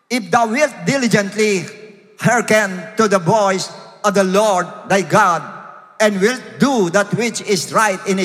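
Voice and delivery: preacher declaiming scripture; emphatic scripture reading. Acted. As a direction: read the verse out phrase by phrase, punching words. Reads King James verse aloud.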